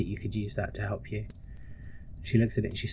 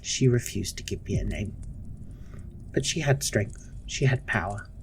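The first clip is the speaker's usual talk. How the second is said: stern matron, hushed. Acted. Matron explains her cruelty to Ebony, hushed and stern.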